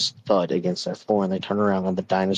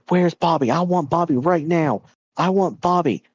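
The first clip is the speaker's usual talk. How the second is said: put-on much higher, demanding child's tantrum; mock screaming rage; 9 semitones higher than usual. Son in a fit of rage at his parents, mock screaming. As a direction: act out a raging kid without full volume. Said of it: "He's just screaming this over and over".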